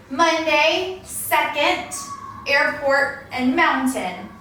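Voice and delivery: "Monday, second, airport, mountain", each stressed on its first syllable; slow word list, leaning on MON, SEC, AIR, MOUN; teacher's list with "Monday" to "mountain" front-stressed. Shown as a demonstration. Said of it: "naturally put on the first syllable".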